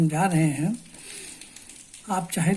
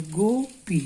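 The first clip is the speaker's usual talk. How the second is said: broken into syllables; much slower than usual. Shown as a demonstration. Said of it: "तोड़ तोड़ के पढ़िए".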